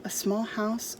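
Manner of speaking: plain reading voice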